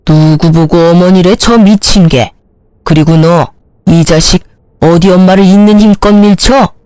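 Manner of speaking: a mother shoved by her own son; furious mother. Acted. (아들에게 밀쳐져 분노한 어머니)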